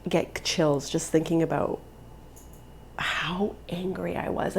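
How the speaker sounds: slow, breathy whisper of remembered anger; hushed intensity. Real, not acted. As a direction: drop to a whisper, slowly. Recalling her rage.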